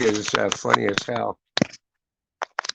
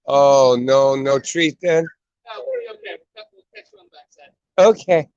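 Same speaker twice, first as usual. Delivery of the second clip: dog talk; 6 semitones higher, 8 dB louder, slower than usual. Real, not acted. Talking to the dog.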